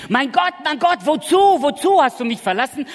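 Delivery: loud, high anguished cry of Jesus. Retold or imitated. Preacher voicing Jesus on the cross, loud anguished cry. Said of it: "Hat Jesus am Kreuz von Golgatha geschrien".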